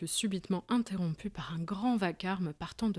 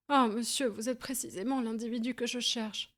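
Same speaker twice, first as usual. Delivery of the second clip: eager cry; 5 semitones higher than usual. Acted. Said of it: "s'écria le petit homme".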